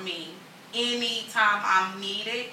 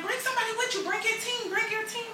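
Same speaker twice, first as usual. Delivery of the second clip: quoting the organizers; 13 semitones higher, 5 dB quieter, faster than usual. Retold or imitated. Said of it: "they kept saying".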